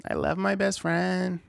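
imitating a valley girl. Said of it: "why is that, like, the standard voice now".

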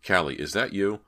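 mildly insistent questioning; demanding. Acted. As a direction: demand an answer from someone unseen. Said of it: "he demanded".

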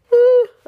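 sudden high startled gasp; sharp gasp. Real, not acted. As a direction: gasp as you remember.

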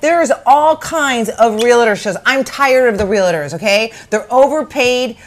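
real rant. Real, not acted. Ranting about realtor shows.

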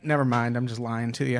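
deflated admission. Retold or imitated. Man confessing to the waitress he lied, deflated low voice. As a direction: drop low and give up the lie. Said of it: "And I was like".

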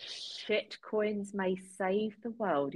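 slow, hushed whisper of the title; slow dramatic whisper; whispered echo. Acted. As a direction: whisper it back slowly, like a secret. Guest echoes title mysteriously.

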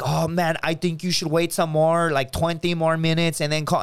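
lightly imitated Swedish friend; Swedish accent. Swedish friends giving bro advice, light Swedish accent. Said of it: "they all talk like this".

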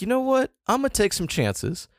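high, bold sudden resolve; excited inner voice. Retold or imitated. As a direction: pitch way up, daring decision. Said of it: "I was like".

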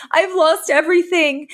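a hint of a wailing mother, pitched high; mock despair, lightly voiced; distressed mother. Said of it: "she's like".

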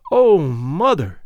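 trembling. Acted. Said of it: "answered the girl in trembling accents".

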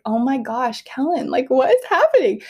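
rising to a loud high gasp of disbelief; amazed disbelief. Retold or imitated. Mom on the table watching husband joke, rising disbelief. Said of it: "And I'm like".

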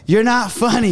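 high-pitched mocking teenage heckler; heckling teen. Comic retells a teen heckling him at a gig, heckling teen. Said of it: "the thirteen-year-old starts heckling me".

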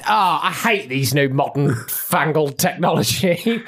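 put-on grumpy old man voice. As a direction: grumble like a technophobe grandad. Derek grumbling about phone.

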